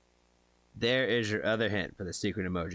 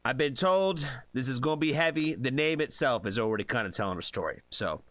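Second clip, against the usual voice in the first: video intro. Acted.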